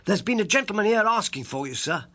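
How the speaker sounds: put-on high, loud eager servant boy; a breathless young page at the door. Page boy interrupts Holmes at the door, high and loud. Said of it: "said our page boy".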